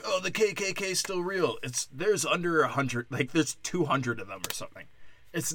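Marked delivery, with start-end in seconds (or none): 0.0-1.6 much higher, put-on worried voice; mocking alarmist. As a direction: parody someone crying wolf. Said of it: "people who are like".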